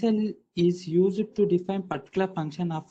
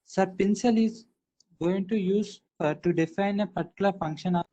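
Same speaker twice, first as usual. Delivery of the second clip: choppy, dropping in and out; voice coming and going. Real, not acted. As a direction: voice cutting in and out on a bad connection. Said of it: "Why your voice is coming and going".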